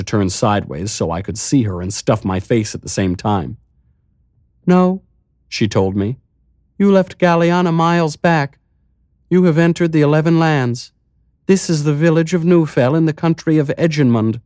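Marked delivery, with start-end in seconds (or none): 4.7-5.0 high, light mayor voice; lifted voice for the calm, strange mayor; village mayor. Acted. 6.8-14.4 high, light mayor voice; lifted voice for the calm, strange mayor; village mayor. Acted.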